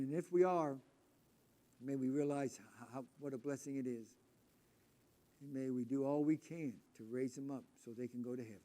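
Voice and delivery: earnest prayer voice; closing prayer. Acted. Preacher closing the lesson with a prayer, earnest. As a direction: lead the congregation in prayer.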